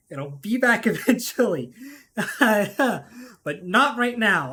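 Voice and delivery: can't hold back the laughter on the repeat; laughing through it. Real, not acted. Repeats the line, laughing second time.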